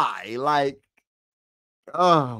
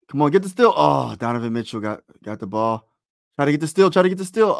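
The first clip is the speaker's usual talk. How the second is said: urging; 2 semitones higher, 5 dB louder, faster than usual. Real, not acted. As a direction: push the team on, rising. Urging team for a steal.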